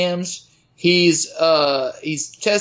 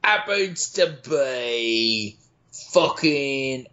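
mock contestant voice; 3 semitones lower, much slower than usual. Cohost plays Antonio Brown contestant.

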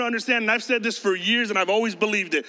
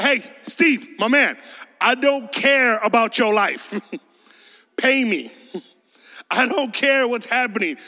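indignant worker. Acted. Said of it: "That's how you would react".

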